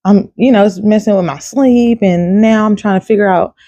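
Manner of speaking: imitating your own worn-out fussing; whiny complaining. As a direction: pile up complaints in a mock whine. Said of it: "fussing, whining, complaining".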